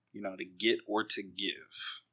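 breathy Halloween whisper; spooky whisper. Pretend. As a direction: whisper it like a ghost story. Halloween candy teaser whisper.

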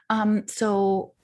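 slow hushed whisper. Real, not acted. Choosing a Red Bull flavor in a whisper. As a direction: whisper it like a secret. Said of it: "Oh, whispering".

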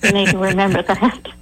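thick put-on Southern accent. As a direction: play up a hammy Southern accent. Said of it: "my very best dumb Southern accent".

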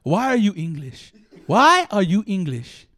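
bad Welsh impression, building; mock Welsh accent. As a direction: parody Welsh voice asking why you are English. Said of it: "It goes like this".

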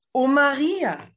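joyful exclamation. A narrator's reading. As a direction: burst out with overjoyed recognition. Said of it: "rief Elisabeth".

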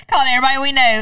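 fast laughing line. Real, not acted. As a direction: rattle it off through laughter.

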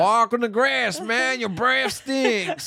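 slow, high cowboy drawl. Acted. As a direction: lay on a Western twang. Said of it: "do that cowboy voice".

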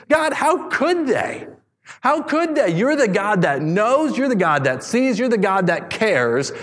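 high, slow, pained cry to God; anguished plea. Acted. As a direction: voice David's disbelief, pleading and hurt. Pastor voices David's outrage.

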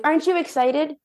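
eager prodding. Retold or imitated. Prodding her gloomy partner.

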